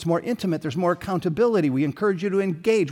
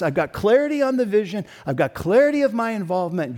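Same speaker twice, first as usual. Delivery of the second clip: higher, louder, excited yes-voice; eager church member; 5 semitones higher, 3 dB louder than usual. Pretend. Preacher voices a committed crew member, excited and loud. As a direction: voice the eager member who is all in.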